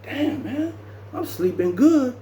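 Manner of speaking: whining about waking; mock whine.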